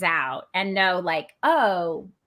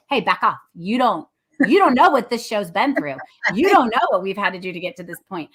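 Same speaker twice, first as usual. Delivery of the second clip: defensive pushback; 4 dB louder than usual. Retold or imitated. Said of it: "I do find myself defensive".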